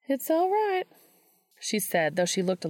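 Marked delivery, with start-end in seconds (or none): 0.1-0.9 put-on higher, gentle older woman voice; kindly teacher reassuring her student; Missouri, gentle mentor. A narrator's reading. Missouri reassuring Dean about his poem, gently.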